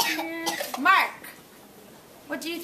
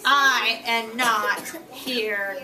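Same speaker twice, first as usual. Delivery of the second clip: sleepy Toad voice; 3 semitones lower, 4 dB louder, much slower than usual. Acted. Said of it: "said the voice".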